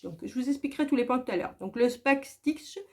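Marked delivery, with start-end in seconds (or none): 2.0-2.8 English word in a clumsy French accent; "backstitch" said slowly with a heavy French accent; mauvais accent anglais. Real, not acted. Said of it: "désolé pour mon accent, euh, anglais pourri". (accent anglais pourri, à la française)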